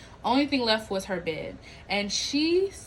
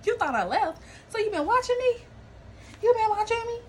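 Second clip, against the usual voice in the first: incredulous; 12 semitones higher than usual. Real, not acted. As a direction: throw the question back in total disbelief. Mock confrontation with the squatter.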